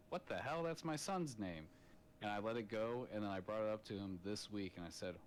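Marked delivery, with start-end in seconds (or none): 0.1-1.7 higher, startled outburst of disbelief; as if the name just popped up on screen; shocked disbelief. Retold or imitated. Dad seeing his son's name on Snapchat, surprised and higher. Father spots son on Snapchat.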